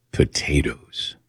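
slow, low, hushed doctor; doctor's voice. Retold or imitated. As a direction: draw the word out low like the doctor. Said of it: "And he talked like this".

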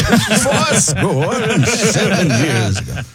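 grand slow oration; Abe Lincoln. Acted. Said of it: "you do Abe Lincoln".

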